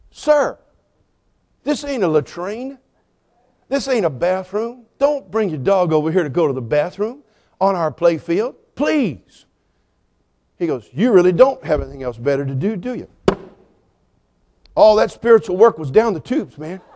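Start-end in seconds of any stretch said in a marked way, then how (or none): 0.1-9.5 retold plea, slow and softened, held in check; strained politeness. Pastor pleading with dog owner about the playfield, strained polite restraint. 10.9-13.1 low, cool needling question; dismissive retort. Retold or imitated. Dog owner retorting to the pastor, low and dismissive.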